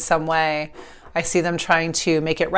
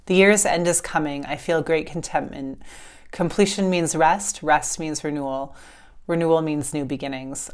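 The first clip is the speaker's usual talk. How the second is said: calm, measured reading of a book passage; reading a passage aloud. Acted. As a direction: read it like a gentle oracle message.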